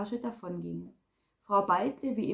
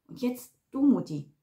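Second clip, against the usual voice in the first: curt command, louder on the last word; bossy order; 3 semitones higher, 4 dB louder than usual. A narrator's reading. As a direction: tell your mother off sternly. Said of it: "herrschte sie Agathe Schmid an". (herrisch anfahrend)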